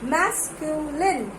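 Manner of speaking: "Masculine" stretched slowly, each syllable set apart. Shown as a demonstration. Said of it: "one syllable, second syllable".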